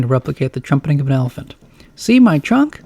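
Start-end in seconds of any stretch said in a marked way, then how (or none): 2.0-2.8 put-on excited kid. A narrator's reading. Kid shows off elephant costume.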